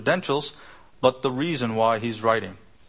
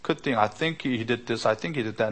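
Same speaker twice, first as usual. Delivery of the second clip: softer, hesitant mock musing; murky unsure thinker; 4 dB quieter than usual. Preacher mocking a hearer's murky guesses, softly unsure. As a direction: play a vague doubter who cannot commit. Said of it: "have murky understanding".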